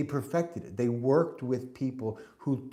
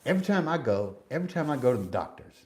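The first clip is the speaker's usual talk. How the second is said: mock Southern twang, slightly raised; thick Southern accent; faster than usual. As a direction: imitate an older man's Southern accent. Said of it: "he had a really thick Southern accent".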